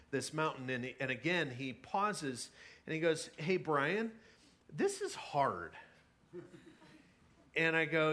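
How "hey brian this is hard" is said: lightly voiced tired kid, slow on the last words; a hint of a worn-out kid. A tired camper kid tells Brian on the hike, lightly voiced and slow. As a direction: let the kid drag out that it's hard.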